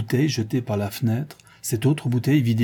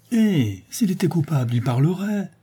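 high-pitched exclamation; mother's raised, urgent cry; 6 semitones higher than usual. A narrator's reading. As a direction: burst out in indignant protest. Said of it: "s'écria madame Gresloup".

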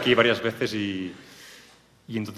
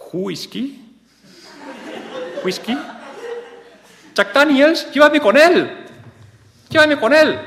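very high, loud wailing plea; hammed-up shriek; 7 dB louder, slower than usual. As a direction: shriek it like a melodrama heroine. Acted hysterical plea.

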